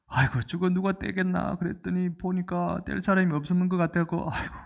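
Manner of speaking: mild mock wailing, not really crying; sorrowful lament. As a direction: imitate someone sighing in helpless sorrow. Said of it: "슬퍼서 우는데".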